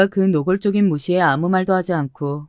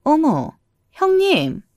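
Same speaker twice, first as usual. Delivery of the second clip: high-pitched call of recognition; lightly acted, high surprised hail; surprised greeting; 9 semitones higher, much slower than usual. A narrator's reading. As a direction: call out to a relative you just spotted. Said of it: "누군가 저를 불렀습니다".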